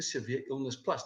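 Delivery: lightly stressed Plus at the end. Real, not acted. Presenter recommending the flagship benefit to clients, stress on Plus. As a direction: lean a little on the word Plus. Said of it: "the emphasis on the word plus".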